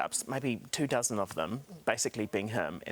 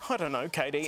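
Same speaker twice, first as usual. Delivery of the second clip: laughing, caught-out shrug of a line; sheepish laughing reply; 3 semitones higher than usual. Retold or imitated. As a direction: laugh through the lame excuse. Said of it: "I was like".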